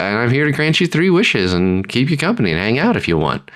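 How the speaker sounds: high, eager genie talking fast; a squeaky nervous genie; unsure genie. Retold or imitated. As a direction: oversell it nervously. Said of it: "unsure of it".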